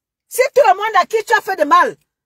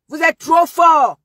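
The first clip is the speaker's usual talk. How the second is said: mocking taunt; slower than usual. Real, not acted. Mocking repeat of "trop fort.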